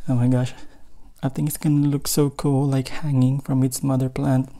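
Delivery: breathless, panting between words; out of breath. Real, not acted. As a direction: talk while still catching breath. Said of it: "I'm running out of breath still".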